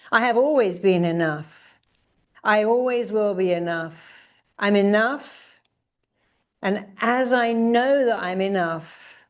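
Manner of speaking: affirmation lead. Shown as a demonstration. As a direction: lead the chant with conviction. Leads affirmations.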